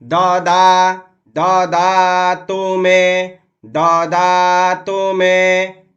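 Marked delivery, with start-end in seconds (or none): 1.3-5.8 द clipped short, दा held long; slow chant with a quick द. Shown as a demonstration. Teacher showing that द gets no extra time. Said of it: "द पर भी समय नहीं देना है".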